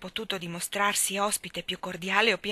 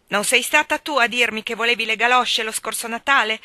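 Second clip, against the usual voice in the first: loud, higher furious rant; vocal rage; 3 semitones higher, 9 dB louder than usual. A narrator's reading. Cyrus raging at his family, loud furious rant. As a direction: hammer each question at them. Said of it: "la collera del padre era vocale".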